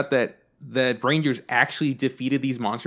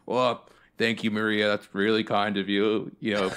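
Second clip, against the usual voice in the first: smooth dad; 3 semitones lower than usual. Retold or imitated. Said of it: "My dad's just like".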